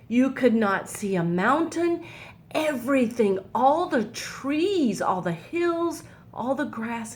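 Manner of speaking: put-on gentle, lively storybook reading for kids; reading to children. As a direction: read it like a picture book to little ones. Reads Bible story to children.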